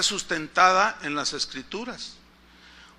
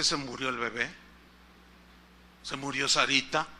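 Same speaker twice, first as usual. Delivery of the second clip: horrified thought; 8 semitones lower, 8 dB quieter than usual. Retold or imitated. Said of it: "eso lo pensé yo".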